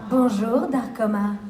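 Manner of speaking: light French hello, easing off on the name; smooth performed greeting; in-character greeting. Shown as a demonstration. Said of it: "in your voice could say hi".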